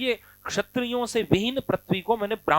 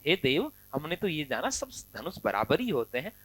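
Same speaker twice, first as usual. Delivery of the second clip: respectful; 5 semitones lower, 8 dB quieter than usual. Acted. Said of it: "देव सम्मान के साथ बोल रहे हैं".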